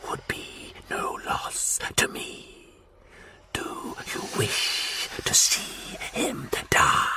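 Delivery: slow, hissed whisper. A narrator's reading. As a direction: hiss the threat. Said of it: "he hissed".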